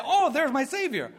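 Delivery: high, glad exclamation; acted relief. Preacher voicing a sinner turning to the cross, relieved. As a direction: cry out in joyful recognition.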